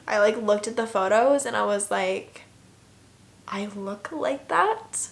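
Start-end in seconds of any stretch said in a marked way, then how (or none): 3.5-5.1 slow, softer, rising incredulous question; dismayed disbelief. Retold or imitated. Seeing her own photos after surgery, quietly incredulous. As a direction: draw it out as a mildly stunned question.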